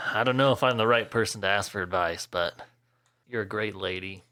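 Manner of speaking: low, quiet, halting reassurance; lightly voiced reticent Thane. Thane gives Karen romantic advice, softly hesitant.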